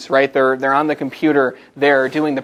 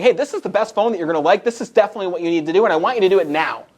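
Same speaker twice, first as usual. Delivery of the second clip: fast, higher, pushy sales pitch; pushy fast salesman; 4 semitones higher, faster than usual. Retold or imitated. Salesman rushing a customer through a hard sell, fast and pushy. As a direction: rattle it off like an eager salesman. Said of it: "talking like this saying".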